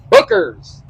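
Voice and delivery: high excited cry of Booker's; excited bourbon name. Real, not acted. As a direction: sing out the name with delight.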